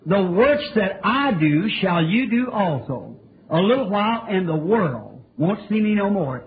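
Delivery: slow, measured recitation of scripture; preacher quoting Jesus slowly to the congregation; slow scripture quote. Retold or imitated. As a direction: draw out "The works that I do" solemnly. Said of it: "he said".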